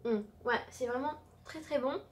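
talking while chewing; just after bite; mouth partly full. Real, not acted. Seen 0: Bit at -7, chewed behind hand; still eating, eclair held.

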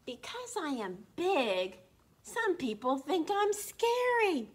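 slow, loud, gentle giant speaking; dinosaur's voice. A narrator's reading. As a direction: read it as the big dinosaur. Reads the dinosaur's first-person lines.

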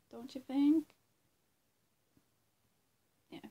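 normal talking voice

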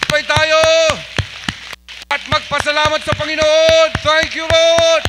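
loud, high shout of praise; rallying shout. Real, not acted. Pastor rallying congregation to thank the Lord together, jubilant shout. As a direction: call out to the whole crowd, stretching the last words.

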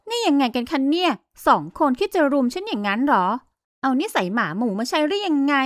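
lightly voiced young woman, scornful and sarcastic; mocking heroine. Heroine mocks her two rivals.

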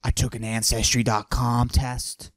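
macho voice pushed down, held the whole bit; forced deep voice. Acted. Comic bragging to the audience in a forced deep voice. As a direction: fake a deep tough-guy voice. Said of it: "I deepen my voice like this".

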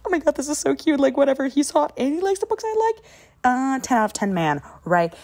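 high, loud swooning gush; gushing fangirl. Pretend. Girl at the library gushes over the cute book guy, high and excited. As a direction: squeal over the cute guy with the same taste in books. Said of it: "You're like".

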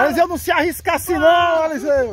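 calling out warning. Real, not acted. Friend calling out warning on ride.

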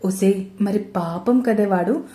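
slow hushed whisper, barely voiced. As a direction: lean in and whisper it slowly. Friend whispers sympathy about Karthik. (నెమ్మదిగా గుసగుసగా)

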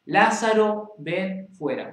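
loud, high call to Lazarus, falling off on ven fuera; preacher voicing Jesus crying out to Lazarus; shouted command. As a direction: call the dead man out with a strong cry. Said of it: "Entonces Jesús gritó".

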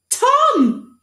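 very high, loud triumphant cry; triumphant boy. Acted. Boy finally recalling his name, triumphant cry. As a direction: shout it out in relief.

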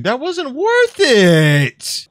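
high, slow drawn-out whine; whiny complaint. Real, not acted. Gamer disappointed in loot, high slow whine. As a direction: moan about the bad loot.

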